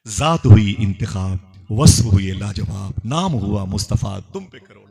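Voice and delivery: slow, drawn-out praise recitation; measured devotional declamation; devotional verse. Acted. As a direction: stretch each phrase reverently.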